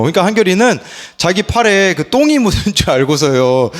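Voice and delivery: normal talking voice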